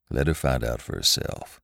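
low, dismissive husband's voice; gruff husband. A narrator's reading. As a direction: drop the pitch and brush her off.

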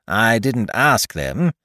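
slow, offhand explanation; carelessly dismissive storybook rabbit. Acted. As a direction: shrug it off at an unhurried pace. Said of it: "explained Rabbit carelessly".

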